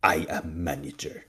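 mock Russian landlord declaring his authority; bad Russian accent. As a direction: put on a clumsy Russian accent. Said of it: "impersonating his bad Russian accent".

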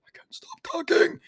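very high, squeaky half-whisper; mock squeaky confession. Self-confessed talker joking about it, high mock squeak. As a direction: squeak it out with barely any voice.

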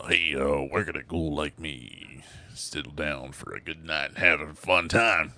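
lightly voiced character delivery; character impression. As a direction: deliver it in his stretched-out phrasing. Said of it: "It's just how he delivers the lines".

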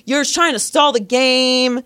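slow, drawn-out mock heckling; retold heckler yelling. Woman accuses the kid of stalling, mild mock yell. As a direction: imitate a heckler, stretching the jeer. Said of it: "she keeps yelling".

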